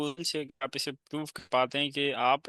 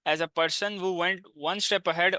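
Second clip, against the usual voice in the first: slow reading aloud; 2 semitones higher, much slower than usual. Shown as a demonstration. Reads example aloud.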